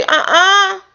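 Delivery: high sassy squirrel trash talk; mock squirrel comeback. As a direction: square up cheekily. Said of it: "And I say".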